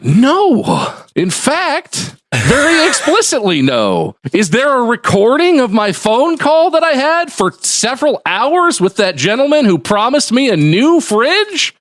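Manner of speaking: mock-outraged customer; indignant refusal. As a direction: refuse flatly, then demand the recording. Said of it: "And I was like".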